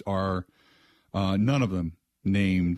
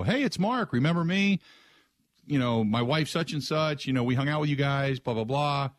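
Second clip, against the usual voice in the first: friendly catch-up call; 4 semitones higher than usual. Shown as a demonstration. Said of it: "that kind of a detailed message".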